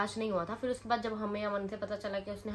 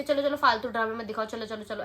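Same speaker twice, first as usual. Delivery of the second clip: retold yell; 7 dB louder than usual. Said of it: "हम पे चिल्लाने लगे".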